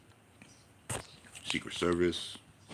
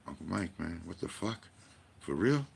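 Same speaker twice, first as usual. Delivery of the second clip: incredulous friends. Retold or imitated. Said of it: "they go".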